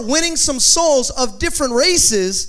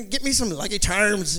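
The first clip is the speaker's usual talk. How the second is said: lightly put-on Irish accent; playful imitation of an Irish accent; 3 semitones lower than usual. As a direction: toss it off in mock Irish. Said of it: "I just start talking like Irish".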